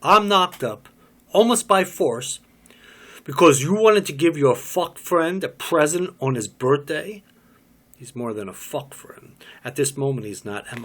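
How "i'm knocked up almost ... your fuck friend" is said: loud, high furious outburst. Acted. Pregnant woman furious at the father, loud high outburst. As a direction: hurl the news at him in fury.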